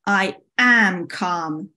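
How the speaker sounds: slow, stressed, testy retort; snapped. Acted. Summer denies being upset to Spring, snapped slowly. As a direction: insist through clenched restraint, word by word. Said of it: "snapped Summer".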